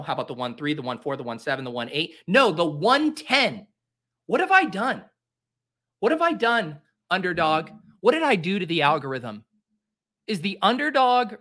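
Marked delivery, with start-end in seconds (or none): 2.3-9.4 mock despair. Anguish at draft slot.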